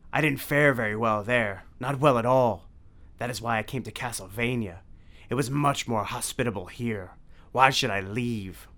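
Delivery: a sulking Count defending his home; Dracula voice. A narrator's reading.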